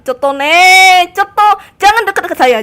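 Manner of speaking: loud, high warding-off shout; high-pitched gamer panic; panicked yell. Real, not acted. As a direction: yell at the attacker to keep away. Warding off attacker in game.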